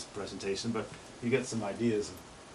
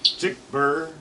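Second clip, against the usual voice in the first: tanager call mimic; 4 semitones higher, 3 dB louder, slower than usual. Shown as a demonstration. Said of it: "That's classic scarlet tanager".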